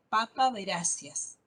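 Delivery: papaveraceas with the stress on the a and a final s; Spanish form. Shown as a demonstration. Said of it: "con acento en la A". (forma castellana: papaveráceas, acento en la a)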